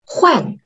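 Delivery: teacher's demo of falling 换; explosive falling tone. Shown as a demonstration. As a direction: fire off 换 as a small explosion.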